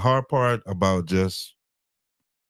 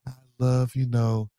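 sing-song, drawn-out higher voice imitating a wife; mock doting wife; 5 semitones higher, slower than usual. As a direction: gush slowly in a mocking sugary wifely voice. Mocking retold wife's sweet devotion.

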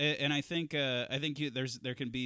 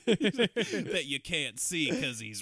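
laughing; 6 dB louder, slower than usual. Real, not acted. Joke said through laughter.

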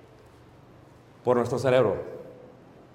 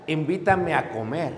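wife's hidden meaning; 2 semitones lower, 4 dB quieter than usual. Retold or imitated. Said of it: "Lo que la mujer quiso decir".

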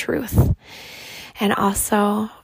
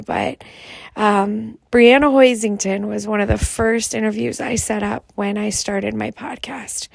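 raspy voice. Real, not acted. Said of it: "I excuse my raspy voice".

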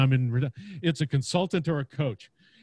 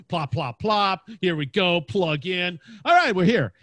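brisk setup; 2 semitones higher, 5 dB louder than usual. Retold or imitated. Acting out a podcast setup.

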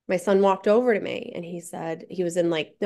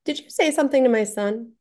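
raised, pointed confronting question; firm question; 3 semitones higher than usual. Retold or imitated. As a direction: direct challenge to a teenager. Confronting the older kid.

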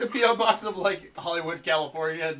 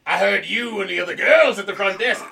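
put-on creepy old man voice; 4 dB louder than usual. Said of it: "creepy old man voice".

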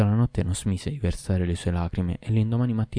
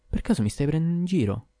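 suspicious wife; 9 semitones higher than usual. A narrator's reading. Wife suspicious of laughing husband.

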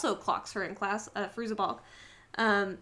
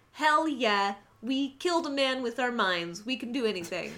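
mock triumphant cheer.

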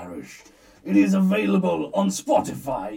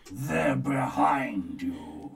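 panto callback; 3 semitones lower, much slower than usual. Pretend. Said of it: "That's how pantomimes go".

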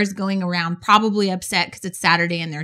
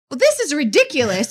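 retold exasperation; 5 semitones higher than usual. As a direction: voice a fed-up caller's mild outburst. Retells daughter fed up on hold.

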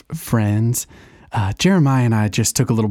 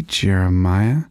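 put-on show voice; 3 semitones lower, slower than usual. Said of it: "Why are you talking like that".

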